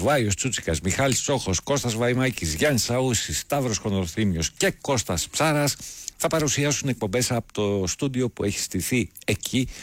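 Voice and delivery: upbeat radio announcement read; promo read. Acted. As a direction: read it out as a lively, continuous event promo. Reads station event promo. (εκφώνηση ραδιοφωνικής ανακοίνωσης)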